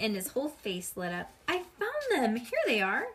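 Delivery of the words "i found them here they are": high, thrilled discovery; excited kid. Acted. Sheldon to the teacher, thrilled. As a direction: burst out with joy. Sheldon finds his pictures.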